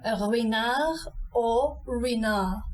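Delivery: Ruinart or Ruinart said slowly, French rwee-nar; French Ruinart twice. Shown as a demonstration. Teacher repeating Ruinart for practice. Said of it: "One more time".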